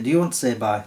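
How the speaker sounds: ordinary delivery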